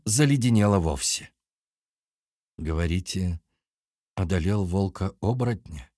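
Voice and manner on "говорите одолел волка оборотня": words pushed out through numb lips. Acted. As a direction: stiff lips, barely forming words. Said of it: "онемевшими губами выговорила Алина".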